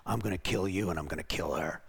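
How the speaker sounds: very low, soft menacing growl; demonic male voice. Retold or imitated. Demon speaking through a woman to Mark, deep male menace. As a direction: threaten in a deep, quiet demon voice. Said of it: "in a male voice".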